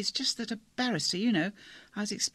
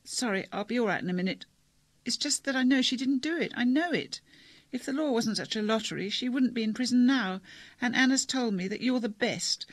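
lightly voiced girl on the verge of tears, higher; a touch of crying in a pleading voice; tearful girl; 3 semitones higher, 3 dB louder than usual. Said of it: "She was crying".

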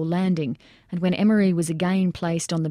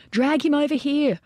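hollered; 8 semitones higher than usual. A narrator's reading. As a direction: call them over urgently. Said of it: "Boland hollered".

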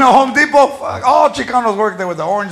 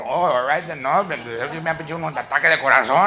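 soft, low sarcastic grandma; quiet grandma; 7 semitones lower, 6 dB quieter than usual. Acted. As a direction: mutter in mock resignation. Grandma reacting to price.

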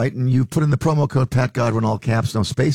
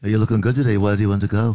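put-on 1960s pop-band accent; faster than usual. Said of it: "so I just did a Beatle accent".

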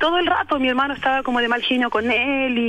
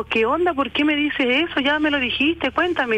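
raised-pitch retold demand; insistent questioning; 6 semitones higher than usual. Sister following brother into his room, insistent. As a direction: press for an answer, voice up high. Retells pressing her brother.

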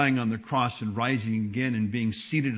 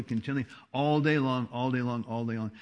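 usual speaking voice

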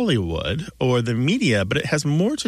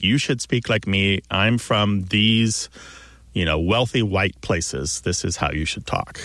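slow, lower, lordly mock lecture voice; mock elite pronouncement; 3 semitones lower than usual. Host mimicking wealthy reference writers dictating speech, in a slow, lower mock-lordly voice. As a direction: lightly voice a self-satisfied gentleman laying down the rules. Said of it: "that's the way that they said that you should speak".

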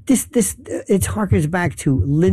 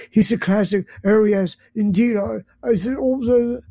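higher-pitched mock posh British accent; Jacob Rees-Mogg; 4 semitones higher than usual. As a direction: send up an upper-class British speaker. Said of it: "posh fellow who talks like this".

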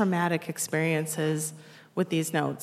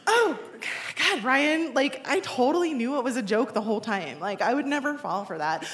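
feigned nonchalance; 2 semitones higher than usual. Retold or imitated. Crushed girl covering up on the phone, feigned nonchalance. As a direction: pretend you knew all along. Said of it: "I gathered my wits".

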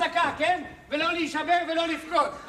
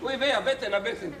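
mock pain; 4 semitones lower than usual. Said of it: "והכאבים אצלי".

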